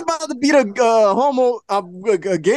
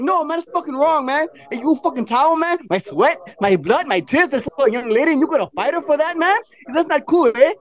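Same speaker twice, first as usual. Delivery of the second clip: imitating a rapper; 6 semitones higher than usual. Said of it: "He's like".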